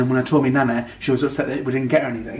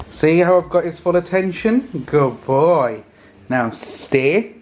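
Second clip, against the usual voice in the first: upbeat commands and praise for the dog, pitched up; dog training voice; 2 semitones higher, slower than usual. Real, not acted. Owner training her dog Ruben, bright commanding praise. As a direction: coax the dog through his tricks.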